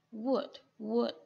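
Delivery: "Wood" with a short u vowel. Shown as a demonstration. A teacher models "Wood" for her student with a short vowel. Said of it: "Còn đây là từ wood".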